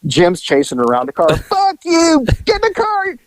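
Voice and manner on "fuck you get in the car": retold yell. Chase around the car.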